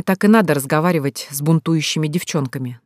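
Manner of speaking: usual speaking voice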